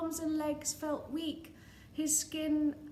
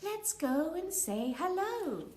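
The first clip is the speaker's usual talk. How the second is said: Pearl; 6 semitones higher than usual. Acted. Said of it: "said Princess Pearl".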